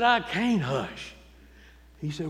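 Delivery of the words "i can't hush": insistent. Retold or imitated. Shouter answers the deacon.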